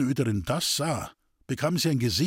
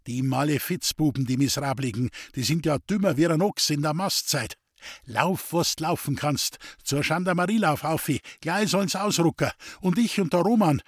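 angry; 3 semitones higher than usual. Acted. Waldhofer angrily orders the boy.

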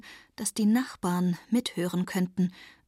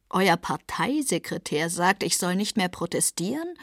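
baffled. Acted. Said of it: "sagt er verblüfft".

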